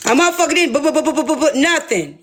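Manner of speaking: stuttering through a laugh; laughing mock stutter. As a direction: cut off by laughter mid-word.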